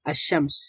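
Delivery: "আশ শামস" as ash-shams, no l; silent lam. Shown as a demonstration. Teacher models the word for learners, silent lam. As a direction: double the sh in "আশ শামস". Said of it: "লাম পড়িনি".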